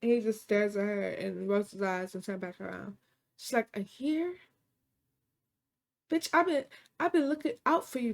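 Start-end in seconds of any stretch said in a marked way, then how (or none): 3.8-4.4 high, rising disbelief; acted-out stunned question, pitch climbing; incredulous echo. Wife learns how long affair lasted. 6.1-8.1 high-pitched, acted-out indignation; wronged wife telling off her friend; indignant confrontation.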